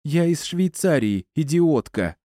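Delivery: high-pitched, irritated retort; offended woman's comeback; angered. A narrator's reading. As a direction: fire back angrily, pitch well up. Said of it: "разозлилась Стефани".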